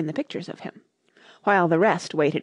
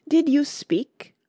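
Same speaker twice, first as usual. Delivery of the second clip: whisper; 9 semitones higher, slower than usual. A narrator's reading. Mouse suspicious after interruption.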